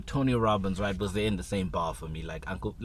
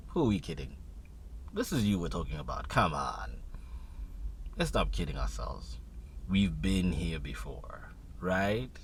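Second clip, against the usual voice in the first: inner critic; 3 semitones lower, 3 dB quieter than usual. Retold or imitated. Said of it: "still small voice that goes".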